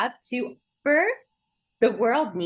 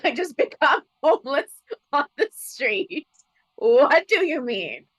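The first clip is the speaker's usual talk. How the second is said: slow, higher, half-laughing incredulity; dawning disbelief; 3 semitones higher than usual. Retold or imitated. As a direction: draw it out as the idea sinks in. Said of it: "And I literally was like".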